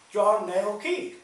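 slow, drawn-out quoted name; imitating his odd phrasing. Repeating what the fellow said, drawn-out imitation. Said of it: "don't even talk like that".

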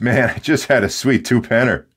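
relaxed West Coast dude with a laugh; laid-back West Coast dude. Retold or imitated. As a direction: chill BC guy, laughing. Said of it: "being a B C boy out in the West Coast".

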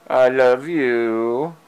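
tender slow declaration to the cat; slow loving. Real, not acted. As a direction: linger lovingly on each word. Said twice to cat.

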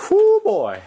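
high, loud "whoo" falling away; relieved whoop. Real, not acted. Filmmaker after James almost took a dive, relieved whoop. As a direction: whoop after a close call.

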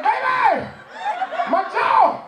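high, loud mock wail about the jaw; hammed-up cry of pain. Husband to wife with his jaw popped out, hammed-up wail. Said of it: "I was like".

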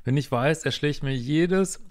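exasperated, drawing out the last words; slow, emphatic frustration on the swear word; worked up. Real, not acted. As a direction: get worked up and stretch each word at the end. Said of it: "sorry, dass ich mich so aufrege".

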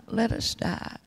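the plea fades to a breathless whisper. Retold or imitated. Souls in the valley echo their plea, whispered. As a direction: let the words die away in a whisper. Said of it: "and screaming".

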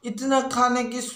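a touch of exasperated complaint; mildly angry. Acted. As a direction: grumble at grandpa in mock annoyance. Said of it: "इतना गुस्सा क्यों हो रहे हो". (हल्की झुंझलाहट भरा गुस्सा)

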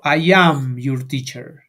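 slow, careful classroom model sentences. Shown as a demonstration. Teacher modelling sentences for the class, slow and deliberate. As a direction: spell out each sentence slowly for Spanish-speaking students. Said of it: "en las oraciones digo".

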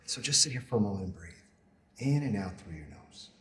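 soft, measured meditation voice with long pauses; guided meditation. Acted. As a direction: guide them gently through a body scan, unhurried. Leads a body scan meditation.

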